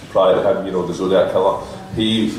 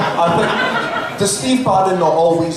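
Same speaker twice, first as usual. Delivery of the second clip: high, laughing through the words; 9 semitones higher than usual. Real, not acted. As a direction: giggle while you say it. Mocking Bannon's face, cracking up.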